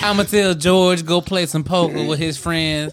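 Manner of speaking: lightly voiced Southern plantation mistress; a hint of Southern belle, scheming sweetly; mild Southern accent. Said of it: "W accent".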